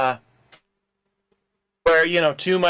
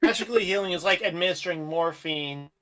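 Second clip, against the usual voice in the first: breaking up call audio; bad connection; 4 dB quieter than usual. Real, not acted. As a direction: voice cutting in and out. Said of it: "You're breaking up".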